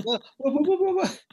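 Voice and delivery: hammed-up, high-pitched string of baffled yelps; baffled girlfriend. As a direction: imitate her squeaking in bewilderment. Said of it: "she had no idea what I was saying".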